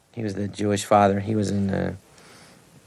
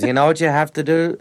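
imitating Ned Glass; 5 semitones higher, 3 dB louder than usual. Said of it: "he talks like this".

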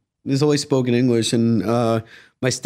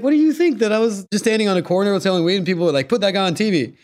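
higher-pitched incredulous retort; mock indignation; 6 semitones higher, faster than usual. Answering a stoner in Bryant Park, mock indignation. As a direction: retell it as baffled protest.

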